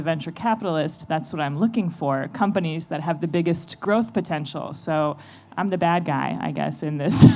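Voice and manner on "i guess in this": laughing. Real, not acted. Calls herself the bad guy.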